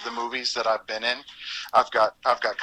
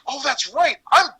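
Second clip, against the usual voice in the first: amused realization; 13 semitones higher, 3 dB louder than usual. Retold or imitated. Realizing he voiced everyone.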